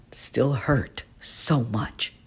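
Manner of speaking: slow, breaking whisper; slow whisper of lasting hurt; aching whisper. Acted. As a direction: barely get the words out, hurting. Painful confession of past bullying.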